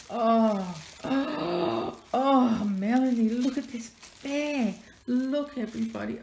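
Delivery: high, loud gushing oh oh oh; delighted squeal. Real, not acted. Gushing loudly to Melanie and viewers about the bear. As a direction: squeal with joy at the gift.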